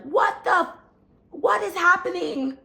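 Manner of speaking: high-pitched, alarmed retold cry; scared sister. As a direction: imitate a frightened listener on the phone. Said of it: "She's so scared".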